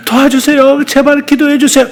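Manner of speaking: high, pleading, begging voice; pleading for help. Shown as a demonstration. Preacher mocking a helpless plea for prayer, pleading high. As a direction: beg for help in a thin high voice. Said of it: "이렇게 말하지 말고".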